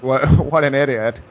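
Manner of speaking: imitating a scornful laugh through the words; mocking laughter. Guy at the table laughing at the player's hand, mocking laughter. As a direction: laugh at him as you speak. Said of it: "The guy started laughing at me".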